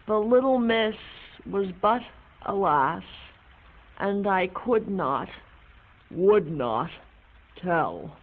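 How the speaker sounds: reciting a remembered poem, fading; poem recitation. Acted. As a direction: recite the verse with feeling.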